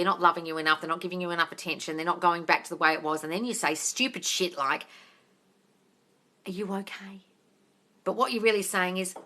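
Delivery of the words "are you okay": very soft, near-whispered check-in; imitating an insecure partner, hushed; timid mock question. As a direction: ask it meekly, almost under the breath.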